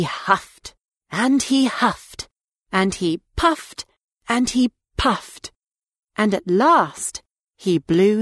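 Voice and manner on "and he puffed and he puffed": usual speaking voice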